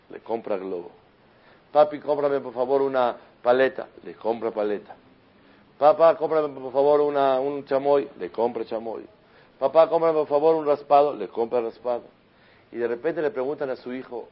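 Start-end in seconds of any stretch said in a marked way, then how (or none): 1.7-3.9 put-on begging child. Hijo pide cosas al padre. 5.8-8.1 put-on higher, louder childish pleading; begging child. Hijo pide cosas al padre. 9.6-11.1 put-on higher, louder childish pleading; begging child. Hijo pide cosas al padre.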